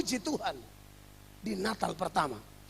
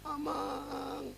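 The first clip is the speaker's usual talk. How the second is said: mock Batak wail; 2 semitones higher, 10 dB quieter than usual. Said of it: "pecah suara begitu loh".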